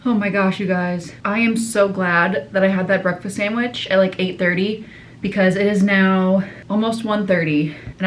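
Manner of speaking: breathless after running downstairs; out of breath. Real, not acted. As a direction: talk out of breath, a bit winded. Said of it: "I'm literally out of breath".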